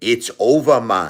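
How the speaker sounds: put-on Jamaican accent. Retelling what a man at the hotel told him, imitating Maurice's Jamaican accent. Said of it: "I like to imitate the Jamaican accent".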